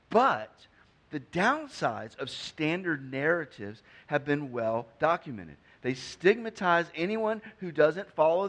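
steady pulpit reading of a quoted article; reading a quote aloud. Acted. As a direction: read the article out to the room. Reads article aloud to congregation.

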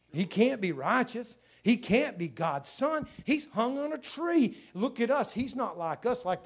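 slow, incredulous mock condemnation; preacher's slow, mounting disbelief; scornful accusers. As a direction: voice the accusers, each phrase drawn out. Acting out the Savior's accusers.

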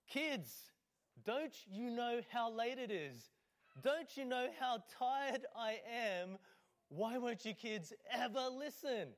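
put-on high, loud, slow furious yelling at the kids; raging parent shout. Parent bursting into the kids' room at night, angry shouting. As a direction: let it all out like an exhausted parent at bedtime. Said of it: "you let out your rage".

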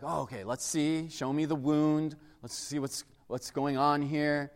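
lightly played calm medic dad; calmly assess a child's tiny scrape; dad triaging. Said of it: "I would, like, triage them".

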